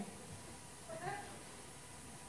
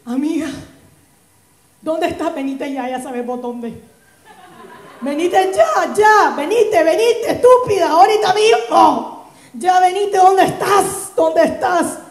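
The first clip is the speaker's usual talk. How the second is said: put-on drunk phone call. Drunk call demanding friend come.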